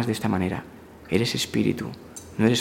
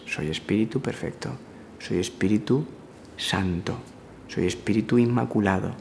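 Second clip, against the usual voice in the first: guided affirmation; 6 dB quieter than usual. Acted. Teacher guiding listeners through a hushed affirmation. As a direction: murmur each line like a quiet prayer.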